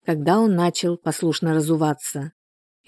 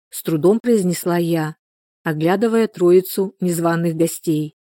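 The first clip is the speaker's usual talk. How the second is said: plain reading voice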